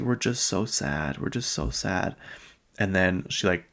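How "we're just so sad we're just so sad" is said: a touch of put-on sorrow, soft and slow; mock fake crying. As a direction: imitate a mom pretending to be sad, understated. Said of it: "'cause she's fake crying".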